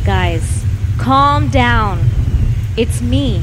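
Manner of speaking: mildly calm, unhurried reassurance; cool, calm, collected. Acted. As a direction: play Jesus calming his friends, understated. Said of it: "cool, calm, collected".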